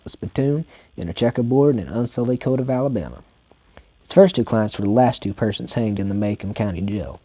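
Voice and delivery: steady audiobook reading voice; story narration. A narrator's reading. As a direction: read it like a novel narrator. Reads novel aloud as narrator.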